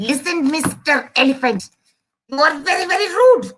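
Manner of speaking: indignant scolding, rising at the end; angry mouse. Acted. Mouse calling the elephant rude, angry and indignant. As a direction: tell off with mounting crossness. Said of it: "this mouse is now very angry".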